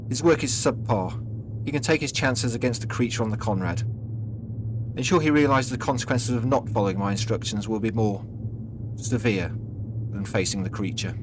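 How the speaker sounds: lightly voiced menacing superior; a hint of a ruthless commander; commanding boss.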